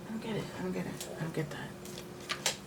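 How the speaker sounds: baffled mumble. Real, not acted. Baffled by the cat.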